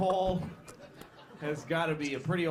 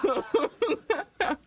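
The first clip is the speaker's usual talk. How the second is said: incredulous; 12 semitones higher, 5 dB louder, much slower than usual. Acted. Bouncer addressing gorilla.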